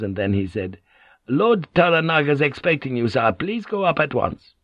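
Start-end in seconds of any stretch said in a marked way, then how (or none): 1.3-4.5 higher, polite official voice; lightly voiced dutiful aide; deferential secretary. Secretary sending a lord upstairs, politely deferential.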